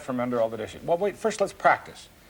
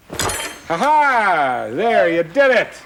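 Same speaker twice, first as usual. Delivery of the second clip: higher and louder, triumphant praise; delighted cheer; 7 semitones higher, 6 dB louder, much slower than usual. Real, not acted. Teacher cheering the boy's successful pull, delighted and loud.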